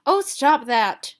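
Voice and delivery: Ruby fending off the blindfold, annoyed. Acted. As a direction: swat him away with your voice. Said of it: "I hit out at him in annoyance".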